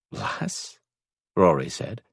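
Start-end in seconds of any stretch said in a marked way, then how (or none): 0.1-0.8 soft smile in the voice; smiling. A narrator's reading. Rory answers her bad mimicry, smiling. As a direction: say it softly through a smile. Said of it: "a smile now in his voice".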